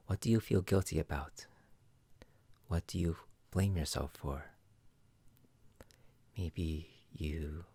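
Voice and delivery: calm, unhurried guide through the chakras; measured meditation-teacher voice with reflective pauses; guided meditation. Acted. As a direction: lead a listener gently inward, leaving long pauses.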